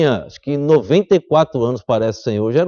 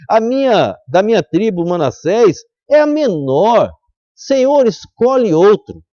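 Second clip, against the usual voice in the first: pleading Gideon; 3 semitones higher than usual. Acted. Gideon begs God choose another.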